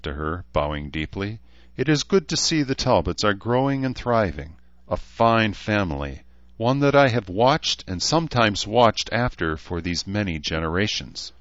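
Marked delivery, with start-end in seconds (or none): 1.7-11.3 lightly voiced gracious elf lord; a touch of formal, lifted courtesy; courtly elf. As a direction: greet an old family with measured honour.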